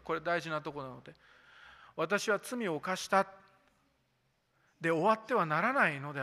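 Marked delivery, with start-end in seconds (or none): 2.0-3.3 私は罪を犯した said slowly and higher for emphasis; slow it down and lift it so it sticks; emphatic repeat. Shown as a demonstration. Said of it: "もう一回言いますよ。これ大事なとこなので". (大事な所なのでゆっくり高く強調して)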